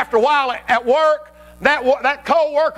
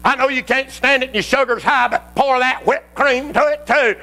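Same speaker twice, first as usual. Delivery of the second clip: greedy flesh; 2 semitones higher than usual. Acted. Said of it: "Flesh says".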